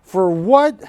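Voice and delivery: mock disbelief, building to the question; incredulous friend. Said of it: "He's gonna be laughing at me, going".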